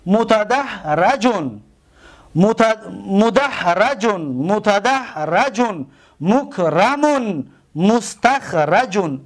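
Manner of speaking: متدحرجون مکرمون مستخرجون spelled out slowly, each syllable drawn; slow teaching drill. Shown as a demonstration. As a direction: draw every syllable out for the class. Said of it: "اسم مفعول".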